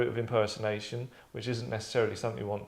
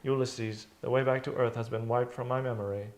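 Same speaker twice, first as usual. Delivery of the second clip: nonchalant computer voice. Shown as a demonstration. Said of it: "That's how she says it".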